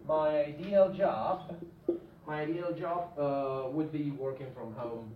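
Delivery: slow deliberate read; slow dictated example. Shown as a demonstration. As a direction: read the sentence out slowly. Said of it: "please tell me the function".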